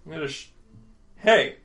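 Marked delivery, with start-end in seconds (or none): 1.2-1.6 indignant shout. Acted. NPC protests gun taken.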